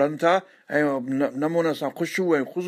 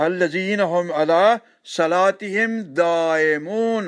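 slow chanted recitation with a rising close; slow Quranic chant; much slower than usual. Acted. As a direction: intone the verse slowly and reverently.

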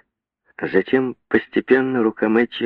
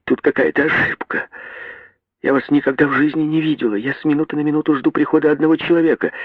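put-on frightened girl; 8 semitones higher, faster than usual. A narrator's reading. Frightened girl pleads quickly.

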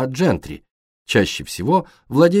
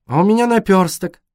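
put-on high, loud girlish howl; loud, high-pitched lament; wailing cry; 10 semitones higher, 5 dB louder than usual. A narrator's reading. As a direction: wail it out in dismay. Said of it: "взвыла Бриджит".

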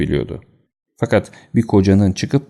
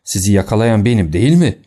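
raised, menacing voice; angry threat. Acted. Fat man threatens the intruders, angry raised voice. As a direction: spit the insults at them.

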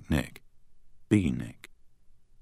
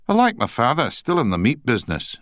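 put-on Scottish accent; 8 semitones higher than usual. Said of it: "in a strong Scottish accent".

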